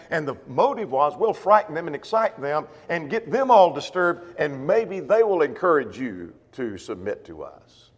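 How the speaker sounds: ordinary delivery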